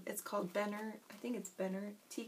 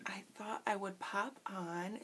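whispering; slower than usual. Real, not acted. Late night, quiet start.

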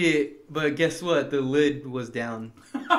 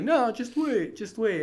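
brother brushing off; 7 semitones higher, slower than usual. Retold or imitated. Brother in the shower.

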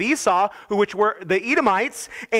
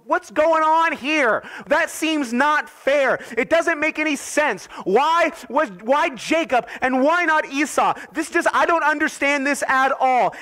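puzzled complaining believer; 6 semitones higher than usual. Retold or imitated. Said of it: "and we go".

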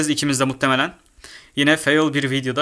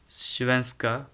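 Svenska whispered without voice; a soft whisper of Svenska; 3 semitones lower, 9 dB quieter than usual. Shown as a demonstration. Reading menu languages aloud.

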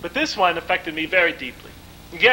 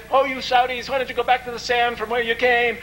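mildly heated retort, pitched higher; retold angry jab; 5 semitones higher than usual. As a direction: retell an angry taunt without shouting. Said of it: "People were really starting to get angry".

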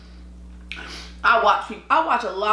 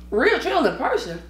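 normal talking voice

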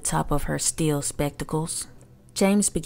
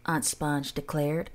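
high, preening vain lady; vain aunt voice; 5 semitones higher than usual. Acted. Aunt Sponge boasts in verse.

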